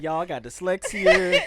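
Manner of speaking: lightly acted loud excuse, laughing; mock pleading excuse. Host excusing himself from reading aloud, mock pleading. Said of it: "would've had to be like".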